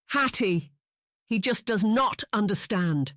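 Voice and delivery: high, upset wail of complaint. A narrator's reading. Sister complains about father, high distressed wail. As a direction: plead in distress, a touch tearful. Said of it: "She practically wailed".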